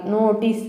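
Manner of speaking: "నోటీస్" with a clean final s; model pronunciation. Shown as a demonstration. Teacher showing learners how to say it, careful "నోటీస్". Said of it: "అని పలకాలి".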